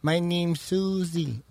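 mock Chinese girl. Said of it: "como la chinita".

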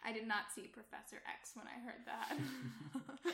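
teasing through giggles; laughing. Real, not acted. Co-host mocking a bad Professor X impression, laughing. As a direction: laugh while saying it, slowly.

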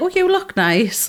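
high, drawn-out cooing compliment; reassuring compliment. Retold or imitated. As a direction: coo it slowly, pitched well up. Quotes friends giving reassurance.

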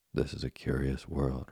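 calm, even, unhurried. Acted. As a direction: settle it calmly like a patient old man. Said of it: "replied Geppetto calmly".

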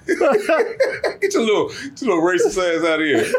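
laughing. Real, not acted. Laughing mock insult to friend.

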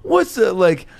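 high Italian-American comedy voice; hammy Italian-American comic. Retold or imitated. Stand-up duo greeting each other in Italian-American accent. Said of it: "they would be like".

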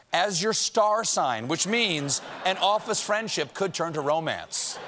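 slow, lilting horoscope reading; breezy horoscope read. Pretend. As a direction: switch to a cheery astrology column. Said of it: "their doctor says".

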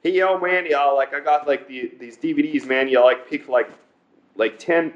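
lightly put-on New York accent; casual New Yorker selling DVDs, lightly imitated. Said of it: "everybody that's from New York, you know how they talk like that".

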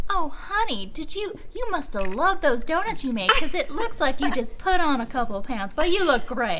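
Southern insult. Acted. Imitating Vine girl's Southern insults, sugary Southern accent. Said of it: "Southern insults where they're always just like".

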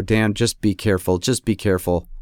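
a hint of a worried wife; nagging wife. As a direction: imitate the wife's fussing caution. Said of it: "my wife has to come out with her hands on her hips and go".

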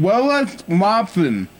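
slurred numb-mouth speech; numb from the dentist. Pretend. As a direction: talk like your lips are numb. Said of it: "And my lips are numb".

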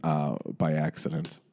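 unvoiced sheepish whisper. Real, not acted. Whispered confession.

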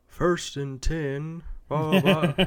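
high, slow, drawn-out mock PA announcer call; distant stadium announcer. Host imitating high school football announcer, lightly hammed up. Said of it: "like, announcer".

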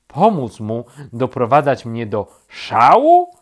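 loud question soaring at the end; indignant, loud echo question; incredulous. A narrator's reading. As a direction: demand it in outraged disbelief. Rabbit incredulous at helping.

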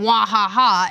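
slow, spaced-out mock crab laugh; imitated crab laugh. Player quoting the crab on the beach, mock laugh. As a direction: spell out a crab's laugh beat by beat. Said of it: "just a crab laughing on the beach".

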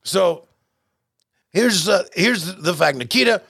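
a half-hearted Ivan Koloff doing a mock promo; a hint of the old Russian Bear cutting a promo; Ivan Koloff impression. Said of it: "you gotta tell me what you think, uh, Ole Ivan's thinking".

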